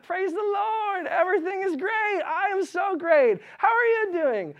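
very high, slow, sugary mock cheer; fake cheerful. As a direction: gush fake-happy at the asker. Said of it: "You'd be like".

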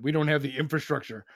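prim, put-on voice for the excuse; mocking their excuse. Host mimics Martha's Vineyard residents, mocking put-on voice. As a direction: parrot the excuse in a mock, prissy tone. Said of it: "because they're like".

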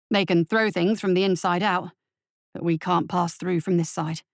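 low, steady subordinate voice; a nervous deputy briefing his captain; deputy reporting. Acted. Deputy reporting bad news to captain, low and measured.

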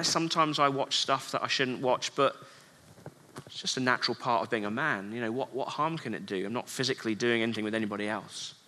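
quietly justifying himself, a touch sheepish; hushed excuse. Retold or imitated. Man excusing his habit to himself, low and sheepish. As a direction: mutter the excuse low and soft.

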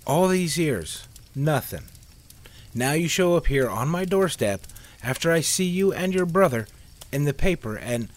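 scolding him, voice rising; angry. A narrator's reading. Liz scolds Sam on doorstep.

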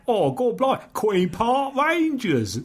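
high, drawn-out, hammed-up Cockney; mock Cockney. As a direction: overdo the Cockney, stretching the words slowly and high. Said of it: "Going on about".

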